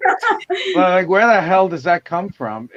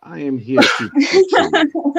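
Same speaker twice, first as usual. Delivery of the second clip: playful put-on copy of Helen's accent, slowing down at the end; mock Helen's accent. The speaker playfully copying Helen's accent after she says her name. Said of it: "Rich can mimic accents really well".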